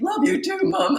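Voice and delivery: put-on high, sweet boyish reply; young son answering mom, high and sweet; young son's reply.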